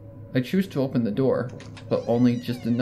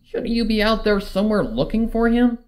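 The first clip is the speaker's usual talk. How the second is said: higher, scolding pony voice; brash Rainbow; 9 semitones higher, 4 dB louder than usual. Acted. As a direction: needle her to act.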